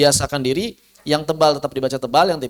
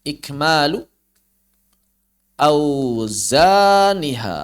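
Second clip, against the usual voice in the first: slow recitation demo; much slower than usual. Shown as a demonstration. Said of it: "cara menyempurnakan harokat adalah ikmalu auzaniha".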